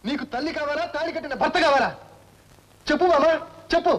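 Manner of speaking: husband forcing wife to choose mother or him; building demand. Acted. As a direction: press her harder until he is shouting.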